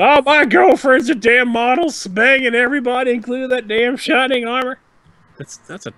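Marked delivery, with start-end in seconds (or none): 0.0-4.8 high, loud hammed-up redneck accent; mock Southern redneck rant about his girlfriend. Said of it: "that was a redneck".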